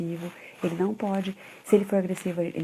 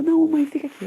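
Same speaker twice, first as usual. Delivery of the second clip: put-on high, louder kid's plea; pleading child; 9 semitones higher, 8 dB louder than usual. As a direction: beg like a small boy who wants mum to stay. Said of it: "normalmente ele fala".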